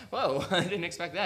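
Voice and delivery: whoa with a laugh, caught off guard; amused, laughing disbelief; laughing surprise. Real, not acted. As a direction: laugh through it, genuinely surprised. Surprised by the verse.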